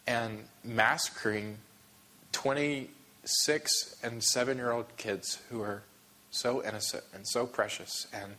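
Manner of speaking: slow, halting, softening by the end; holding back emotion. Real, not acted. Pastor recounting the children's deaths, holding back emotion. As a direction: grieve slowly, trying not to break. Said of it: "I'm gonna get emotional again".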